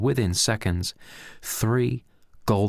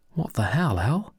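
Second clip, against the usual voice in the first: much higher, angry demand; 9 semitones higher than usual. Acted. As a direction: confront him at the door. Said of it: "said Pedro angrily".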